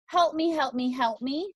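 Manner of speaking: a hint of whiny begging, pitch up; mock needy pleading. Host warning against sounding desperate, light whiny plea. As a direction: beg for help like a needy fundraiser. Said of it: "fine balance between".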